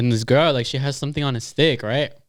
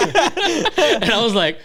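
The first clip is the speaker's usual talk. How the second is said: giggling through the words, slow; can barely talk for laughing; 10 semitones higher, much slower than usual. Real, not acted. Cracking up retelling corn dog.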